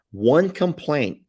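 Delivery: One stretched, high and loud; emphatic. Real, not acted. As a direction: drag out One for suspense. Teasing mom's one complaint.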